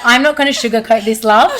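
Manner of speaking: loud, high, blunt no-nonsense voice; brutal psychic. Retold or imitated. Retelling the clairvoyant's blunt warning, loud and high. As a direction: bark it out like a tough medium. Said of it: "She was so brutal".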